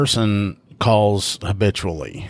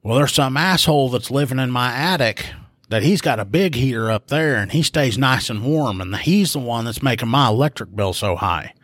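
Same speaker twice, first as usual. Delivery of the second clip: higher-pitched retold grievance; upset caller; 4 semitones higher than usual. Upset caller blaming the man in her attic, mildly aggrieved. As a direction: lightly imitate a caller venting her complaint. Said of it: "she's upset because her electric bill".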